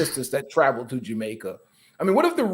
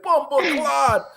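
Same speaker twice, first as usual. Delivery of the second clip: mock Jamaican curse; 11 semitones higher, 4 dB louder, slower than usual. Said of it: "them rude boys be like".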